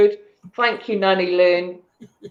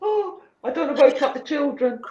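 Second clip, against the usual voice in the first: hushed laughing; 6 semitones higher, 5 dB quieter than usual. Real, not acted. Laughing while hushing for kids.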